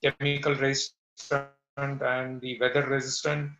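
crackling audio. Real, not acted. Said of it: "your audio is crackling in".

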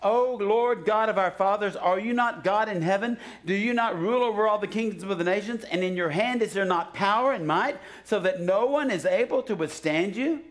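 a hint of a king pleading to God; Jehoshaphat praying. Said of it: "this is Jehoshaphat".

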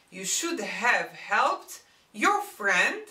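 slow, even teacher delivery; slow, deliberate translation. Shown as a demonstration. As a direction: spell out the English gloss slowly for students. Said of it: "teacher gives slow model translation".

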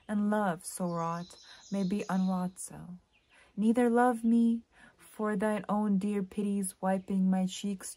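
measured, earnest sonnet recital; poem reading. Acted. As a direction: read the verse phrase by phrase, letting line ends fall away. Reads a sonnet aloud.

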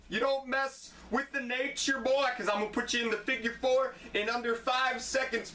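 a lightly voiced boastful wrestling champ; hint of a swaggering wrestler promo; Ric Flair impression. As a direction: strut through it like a cocky champion. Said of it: "Ric Flair would break into my house".

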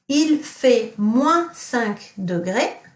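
il fait moins cinq degrés said slowly; teacher quizzing class with il fait moins cinq degrés; slow model sentence. Shown as a demonstration. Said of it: "what does it mean if I say".

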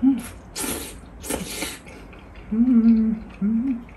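eating soup noodles; mouth full, chewing. Real, not acted. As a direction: hums between bites. Seen 1: Bent over bowl, spoon at mouth, eating throughout labelled words.

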